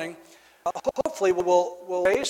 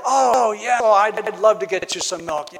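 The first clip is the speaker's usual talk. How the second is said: louder, brighter burst of eager welcome; mock delighted; 2 semitones higher, 5 dB louder than usual. Babysitter answering the child's polite request with hammed-up delight. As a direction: overdo the happy yes.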